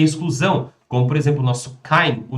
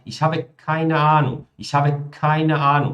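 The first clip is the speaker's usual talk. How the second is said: slow, measured sentence with "keine" emphasised; slow down and lean hard on "keine"; stress on keine; slower than usual. Shown as a demonstration. Teacher shows students the negative focus, slowly stressing "keine". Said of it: "o foco tá na minha palavra negativa".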